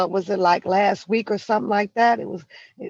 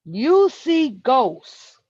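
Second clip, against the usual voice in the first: very slow and louder, YOU leaned on; slow emphatic; 4 semitones higher, 4 dB louder, much slower than usual. Real, not acted. Repeating his verdict to her, slower and heavier. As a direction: spell it out to her once more.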